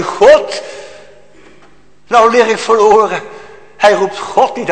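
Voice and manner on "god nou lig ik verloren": much higher and louder wail of a lost man; anguished cry. Retold or imitated. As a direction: cry it out like a damned soul. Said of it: "Hij zegt nu".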